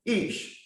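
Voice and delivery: Ish breathed out as a high whisper, eesh. Shown as a demonstration. Teacher names man in Hebrew, breathed eesh. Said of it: "if you take man".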